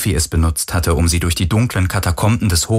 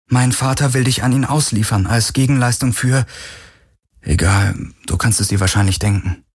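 slightly raised woman's character voice, tense; lightly voiced tense Kirai; 3 semitones higher than usual. Kirai warns Galen of her father's deal, tense. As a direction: break off and brush it aside, lightly in character.

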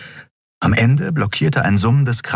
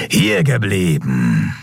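grumbled order; slower than usual. A narrator's reading. Cult leader halting the intruders, slow grumble. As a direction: stop them coldly. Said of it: "brummte ihr Anführer".

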